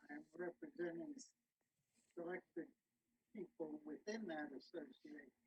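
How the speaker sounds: faint voice, far from the phone; talking away from the phone; phone held away. Real, not acted. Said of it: "you're very difficult to hear".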